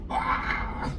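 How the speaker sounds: breathy, voiceless "wah" for a scream; hushed mock scream. Preacher retells his cry of heart pain, as a hushed mock scream. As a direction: act out a scream with hardly any volume. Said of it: "Sampai saya teriak".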